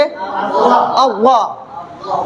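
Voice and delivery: अव्वा thick and rounded, slowly stretched; मोटी आवाज. Shown as a demonstration. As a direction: draw out a full-mouthed, heavy अव्वा. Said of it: "मोटा करके पढ़ेंगे". (अव्वा को मोटा, लंबा खींचकर)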